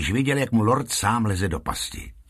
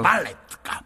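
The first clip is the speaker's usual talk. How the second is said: high exclaimed stage cue; calling out; 8 semitones higher than usual. A narrator's reading. Lotrando sets off the ballerina puppet, calling out. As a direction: call the act out, pitched up.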